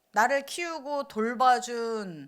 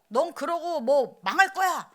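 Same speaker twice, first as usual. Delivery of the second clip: slow, louder scolding curse; mock curse; 4 semitones higher, 5 dB louder, slower than usual. Parent cursing a child in anger, slow and loud. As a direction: spit out a parent's curse slowly. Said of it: "이렇게 저주하는 소리".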